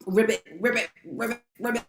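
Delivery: badly faked frog noises; half-hearted frog croak. Shown as a demonstration. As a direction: try a little frog croak and barely manage. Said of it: "I can't even make the frog".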